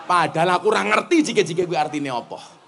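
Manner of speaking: ordinary talk, nothing marked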